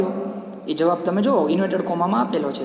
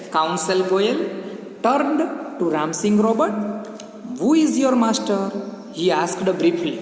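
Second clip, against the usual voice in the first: slow, lifted classroom reading of English; story read-aloud; much slower than usual. Acted. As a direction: read it out very slowly, pitch raised on the question. Reads the story text aloud.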